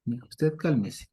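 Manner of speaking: calming. Acted. Calming Elijah, slowed.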